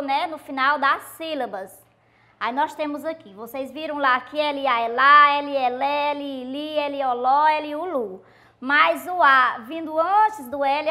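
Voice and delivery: ordinary talk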